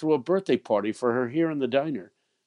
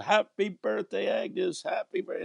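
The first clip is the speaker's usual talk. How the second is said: surprise yell; 10 semitones higher, 3 dB quieter than usual. Retold or imitated. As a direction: call out the greeting as she walks in. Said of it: "we yelled".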